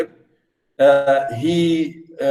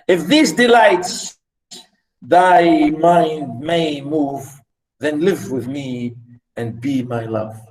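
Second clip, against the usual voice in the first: poem recitation; slower than usual. Acted. Teacher reading a love poem to class, measured recitation. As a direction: recite it line by line with pauses.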